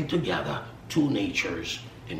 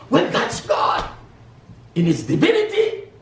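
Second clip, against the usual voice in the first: triumphant shout; 6 dB louder than usual. Acted. Climax of sermon parable.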